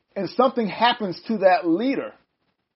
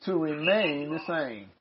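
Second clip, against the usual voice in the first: low, soft, slow echo while writing; slow dictation; 7 semitones lower, 10 dB quieter, much slower than usual. Real, not acted. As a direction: draw the words out quietly as you write. Echoing slowly while writing it down.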